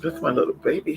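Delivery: cooing to dog. Real, not acted. Soothing her chewed-up puppy, soft cooing. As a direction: coo it under your breath like to a puppy.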